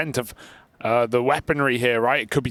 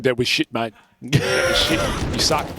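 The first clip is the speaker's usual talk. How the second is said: mock Aussie accent. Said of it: "every time I do Aussie accent".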